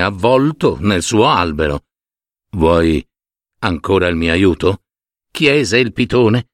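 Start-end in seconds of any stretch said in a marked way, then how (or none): 2.5-4.8 low, measured python voice; calm python. Acted. Python asks the returning man, low calm voice. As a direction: ask low and unhurried.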